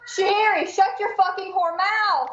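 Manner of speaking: sharp, loud yell at the cat. Real, not acted. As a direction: snap at a misbehaving cat, loud and high. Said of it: "I muted myself to yell at my cat".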